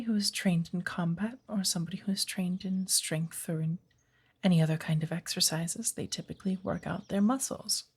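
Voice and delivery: put-on unhurried, gently whispered old witch giving a lesson; lightly voiced wise witch patiently guiding her pupil. Witch teaches apprentice in woods.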